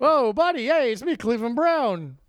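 hammed-up hello, stretched out at the end; mock Cleveland Brown. Podcast host joking his friend's audition, hammed-up cartoon voice.

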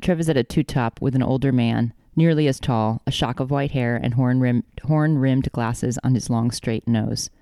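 even, measured audiobook-style reading; story narration. A narrator's reading. Author reading the dream chapter to co-host, measured narration. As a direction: read the dream as steady narration.

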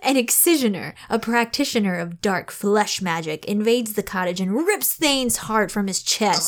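measured, lightly dramatic blurb read; book summary reading. Acted. Host reads the book summary to co-host, lightly dramatic read-aloud. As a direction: read it out like a back-cover blurb.

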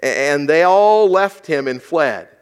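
slow, weighty reading with stress on all; scripture reading. Shown as a demonstration. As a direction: read the verse slowly, leaning on all. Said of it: "Let's look at this".

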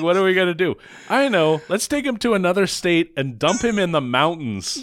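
lightly mocking the gang planning the dump; mock cheerleaders. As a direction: play a ditzy schemer hatching a dumb plan. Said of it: "So they're like".

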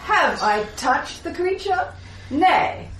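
archaic paladin. Acted. Paladin in character.

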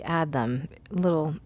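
trailing off, losing the thread; stoned. Real, not acted. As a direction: drift off mid-sentence, stoned. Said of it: "I'm very stoned".

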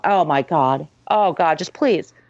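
begging to be put out of misery; exasperated pleading. Retold or imitated.

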